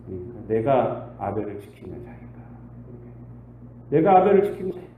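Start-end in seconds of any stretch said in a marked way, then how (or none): 3.9-4.9 defiant Cain. Acted. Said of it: "repeated with attitude".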